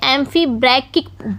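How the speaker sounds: amphibrachal sounded out slowly as "AM-fee BRAK-ik"; amphibrachal pronounced. Shown as a demonstration. Teacher showing students how to read the foot's name, amphibrachal sounded out slowly. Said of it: "इसको पढ़ेंगे".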